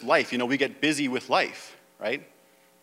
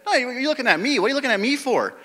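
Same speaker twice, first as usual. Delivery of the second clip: a firm Jesus pushing back, pitched up high; Jesus rebuking; 6 semitones higher, 4 dB louder than usual. Acted. Preacher voicing Jesus turning the question back on the father, high and firm. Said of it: "No, he said".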